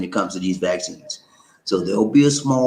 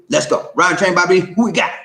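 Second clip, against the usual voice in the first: quick roll call, pitched up; host call-out; 6 semitones higher, 4 dB louder than usual. Real, not acted. Host to the crew asking who's next, raised call-out.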